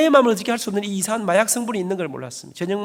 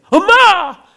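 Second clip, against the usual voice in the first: much higher and louder, a desperate call after mother; desperate cry; 12 semitones higher, 12 dB louder, much slower than usual. Retold or imitated. Son calling after his leaving mother, desperate shout. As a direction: cry out to her as she walks away.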